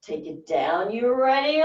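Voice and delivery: ordinary talk, nothing marked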